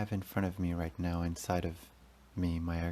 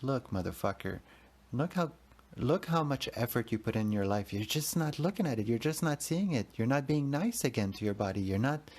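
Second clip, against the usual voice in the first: a lightly higher, insistent inner God voice; 7 semitones higher than usual. Retold or imitated. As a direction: scold yourself kindly as God would. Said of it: "And I heard his voice".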